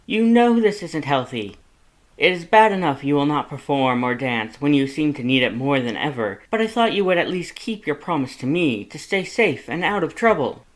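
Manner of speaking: high, loud, exasperated lecture; worried brother laying down the law; Papyrus scolding. A narrator's reading. Papyrus lectures Sans about drinking, high and loud.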